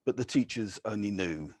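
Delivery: measured, deliberate poetry reading; poem reading. Acted. Poet reads short stanzas to an audience, measured. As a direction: give each short stanza its own quiet weight.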